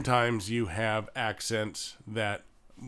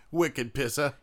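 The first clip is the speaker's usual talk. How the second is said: mock Boston slang accent; 3 semitones higher than usual. Shown as a demonstration. Co-host joins the Boston bit, Boston accent. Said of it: "you're in Boston all of a sudden".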